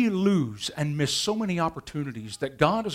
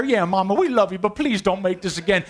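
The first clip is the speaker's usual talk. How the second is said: put-on kids pleading; 3 semitones higher, 5 dB louder than usual. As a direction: beg Mama not to cook it again.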